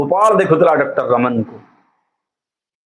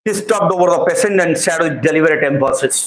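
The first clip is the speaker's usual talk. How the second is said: slow reading; much slower than usual. Shown as a demonstration. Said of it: "ଡେଲିବରେଟ୍ emphasis କହିଲେ କ'ଣ ପିଲେ?".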